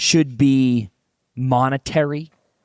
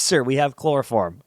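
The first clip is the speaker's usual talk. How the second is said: laughing through a deadpan attendant offer; a hint of a helpful attendant, cracking up; mock flight attendant. Attendant offering chloroform to the father, laughing. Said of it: "She goes".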